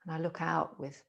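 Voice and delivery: unhurried, measured phrases with long pauses; reflective meditation. Acted. Teacher musing on spring in Glasgow, calm meditative delivery. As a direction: muse gently, letting each image settle.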